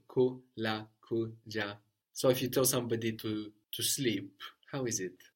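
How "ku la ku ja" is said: "Ku, la, ku, ja" split into separate syllables. Shown as a demonstration. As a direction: pause between "Ku" and "la", "ku" and "ja". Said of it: "just one syllable".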